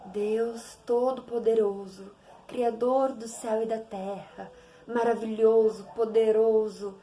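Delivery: slow, solemn church-prayer voice; mock solemn prayer to God; mock grand prayer. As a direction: pray it like a stiff formal speech. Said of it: "aquele discurso".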